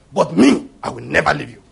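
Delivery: brisk, self-assured pledge of loyalty; boastful vow. Acted. Peter setting himself above the other disciples, boastful vow.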